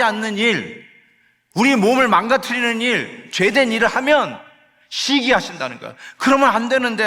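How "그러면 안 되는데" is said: higher, louder grieving cry; the Spirit groaning over our sin, raised and loud; loud lamenting sigh. Acted. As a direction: cry out in sorrowful dismay. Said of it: "하고 탄식하신다는 거예요".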